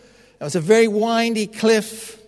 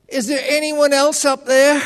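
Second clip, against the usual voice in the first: desperate punchline; 8 semitones higher than usual. Retold or imitated. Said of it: "he says".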